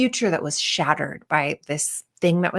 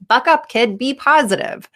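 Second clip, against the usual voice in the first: mock pep talk; 6 semitones higher, 4 dB louder than usual. Mocking unhelpful advice.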